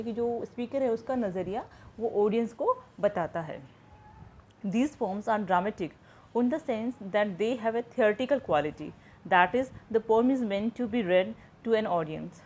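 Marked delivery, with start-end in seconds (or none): 4.7-12.3 slow, measured reading of a textbook definition; slow dictation reading. Shown as a demonstration. Teacher to students, reading the definition slowly aloud. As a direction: read each English phrase out slowly, as if for notes.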